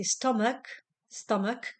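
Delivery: "stomach" said STUM-ak, ending on a hard K. Shown as a demonstration. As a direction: model "stomach" so the -ch comes out as K. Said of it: "K-val".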